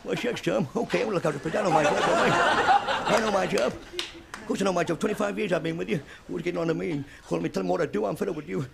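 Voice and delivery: put-on cranky old cowboy voice; Walter Brennan. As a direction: whine it like a cranky old sidekick. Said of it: "John Wayne talking to Walt Brennan".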